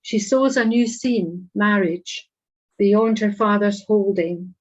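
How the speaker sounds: measured poem recital with pauses between phrases; poetry reading. Acted. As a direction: read each image out deliberately, letting it land. Reads own poem aloud.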